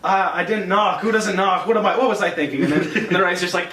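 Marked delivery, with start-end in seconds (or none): 0.0-2.6 flustered apology. Retold or imitated. Poe apologising for walking in.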